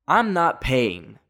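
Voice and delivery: each word laid down slowly; I'm not paying, slow and deliberate; refusing to pay for the crashed bike, slow and firm; slow firm refusal. Retold or imitated. Refusing to pay at the rental office.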